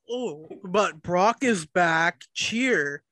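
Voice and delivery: slow, sarcastic mock cheer; mocking fan voice. Mocking the fans who cheer Brock, slow sarcastic drawl. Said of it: "and you're like".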